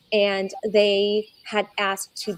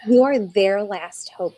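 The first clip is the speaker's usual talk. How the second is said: emotional; 4 dB louder, slower than usual. Real, not acted. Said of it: "I'm gonna get emotional now".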